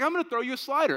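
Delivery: put-on loud, high insistent little boy; retold childish boast; mock kid arguing. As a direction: insist like a six-year-old in an argument. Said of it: "it was back and forth".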